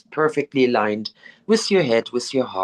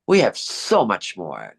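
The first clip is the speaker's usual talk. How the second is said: slow, weighted "so much more"; slow emphasis on "so much more"; emphatic affirmation; 3 semitones lower, slower than usual. Shown as a demonstration. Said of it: "say it with that emphasis".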